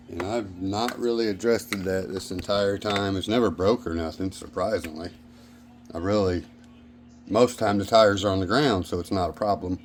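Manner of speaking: talking while chewing fried chicken; eating fried chicken. Real, not acted. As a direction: mouth full of chicken. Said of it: "Sorry, I'm also eating some leftover fried chicken".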